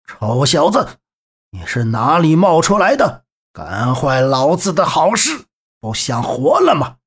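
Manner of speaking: threatening thug, irritated at the intruder; growing threat from a bandit boss; menacing bandit. Acted. (凶狠贼人，恼怒威胁)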